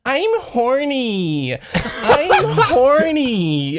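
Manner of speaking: high, slow, giggly whine; laughing whine. Retold or imitated. Friend whining behind in public.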